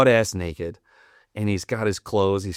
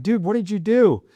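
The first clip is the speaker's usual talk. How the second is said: much higher, louder disbelieving yell; bewildered shout; 13 semitones higher, 4 dB louder than usual. Retold or imitated. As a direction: yell it at your buddy in total disbelief. Chasing naked buddy, bewildered.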